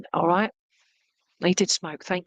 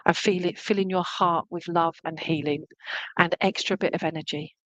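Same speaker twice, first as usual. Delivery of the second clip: guided healing; 2 semitones lower than usual. Acted. Medium sending love and healing to a sitter, guided healing. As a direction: gently lead them through the feeling, phrase by phrase.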